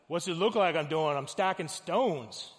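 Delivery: loud, gruff-guy Brooklyn comeback; Brooklyn accent. Acted. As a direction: answer like an irritated Brooklyn worker. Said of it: "he's from Brooklyn for some reason".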